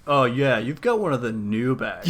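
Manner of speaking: laughing mock-smug boast; smug jerk voice. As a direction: brag about an old bag, laughing. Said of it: "being a total dick of like".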